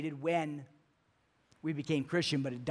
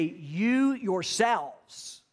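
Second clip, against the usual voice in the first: "You yourselves" drawn out slowly, higher and louder; emphatic stress; 4 semitones higher, 5 dB louder, much slower than usual. Retold or imitated. Paul pressing the Thessalonians personally, slow emphatic stress. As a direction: lean hard on "You yourselves", word by word. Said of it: "with an emphatic personal application".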